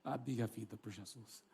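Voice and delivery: tearful slow acceptance, fading low; imitated crying. Freed woman accepting Jesus, imitated crying, slow and sinking. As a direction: say it haltingly through mock tears. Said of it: "E ela, chorando, disse assim".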